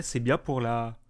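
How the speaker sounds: talking through a yawn; words stretched by a yawn. Real, not acted. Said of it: "je baille, je suis fatigué".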